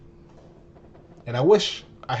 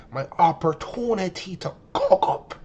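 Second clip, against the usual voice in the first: slow, drawn-out hype about cooking up; hyped self-talk. Retold or imitated. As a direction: savour it like a chance you've waited for. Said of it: "I'm like".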